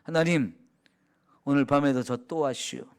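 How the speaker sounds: low, homely Chungcheong dialect. Shown as a demonstration. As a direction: greet God casually in Chungcheong dialect. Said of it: "충청도 사투리로".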